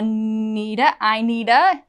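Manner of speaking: "I need a" fused as "eye-needuh"; three words as one. Shown as a demonstration. Teacher shows three words made one, linked "I need a". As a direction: link "need a" with no gap. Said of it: "three words, make it one".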